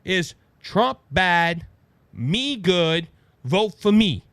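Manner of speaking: slow, simple-minded mock slogan; lightly imitated caveman-simple pitch; Kamala Harris. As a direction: spell it out in blunt chunks. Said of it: "Her whole message".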